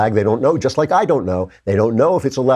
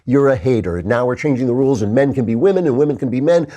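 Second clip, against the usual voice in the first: mocking the left; 4 semitones higher than usual. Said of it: "they keep calling us".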